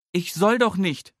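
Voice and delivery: little Nele. A narrator's reading. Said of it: "antwortet Nele".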